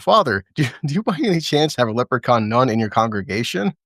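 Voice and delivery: mock Irish accent through a laugh; light Irish accent. Telling a joke to friends, in a lightly put-on Irish accent. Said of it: "he says, in Irish accent".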